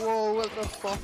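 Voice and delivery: shocked bystanders yelling at a fall; startled crowd. Retold or imitated. Everyone reacts to his fall.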